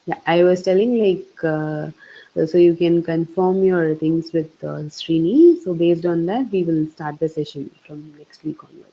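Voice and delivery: muffled, as if through a covered phone. Real, not acted. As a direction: talk with the mic covered. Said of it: "your phone was a little bit muffled that last time".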